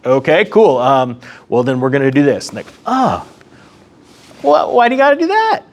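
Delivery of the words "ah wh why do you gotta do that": high, whiny mock complaint; whining Germany. Germany whining at Russia, high mock whine. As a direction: play Germany whining like a hurt kid.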